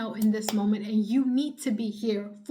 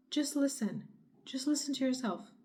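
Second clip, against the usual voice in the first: gentle hush; 3 semitones higher, 6 dB quieter than usual. Real, not acted. Calming after shouting.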